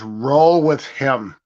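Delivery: "Roll with him" said slowly and flatly, as a lightly voiced order; a coach's unhurried command, only lightly imitated; curt coach order. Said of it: "all of a sudden he goes".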